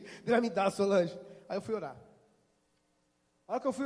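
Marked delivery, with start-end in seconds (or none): 0.0-1.2 insistent. Retold or imitated. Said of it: "Eu tava daquele jeito".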